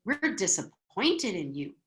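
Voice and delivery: low, soft disapproving voice; self-righteous. Acted. Infant soul disapproving of others' way of life, self-righteous. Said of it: "they are very self-righteous about it".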